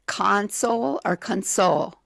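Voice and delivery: CONsole, then conSOLE; first syllable, then second stressed. Shown as a demonstration. Quiz host explaining the answer, contrasting stresses in "console or console". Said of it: "accent on the first syllable".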